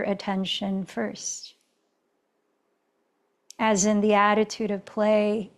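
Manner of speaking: calm, even yoga-teacher guidance with long pauses; settled meditation-leader voice; guided meditation. Real, not acted. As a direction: guide them inward, unhurried, leaving space between phrases. Leads a meditative check-in.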